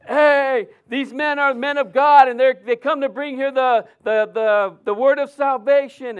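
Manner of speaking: loud, high mock shout of the possessed woman. Preacher imitating the possessed woman yelling at Paul, loud and high.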